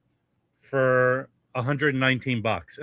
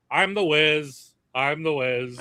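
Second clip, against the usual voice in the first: slow, drawn-out mock proclamation; lightly voiced Seinfeld character; the Wiz from Seinfeld; 2 semitones higher, slower than usual. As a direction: crown on, announce yourself grandly. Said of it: "He puts on the crown".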